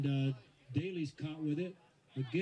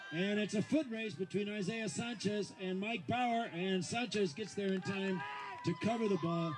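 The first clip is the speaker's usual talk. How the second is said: rising to an excited shout; 5 semitones higher than usual. Real, not acted. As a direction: build the call into a shout. Rugby run, commentator rising.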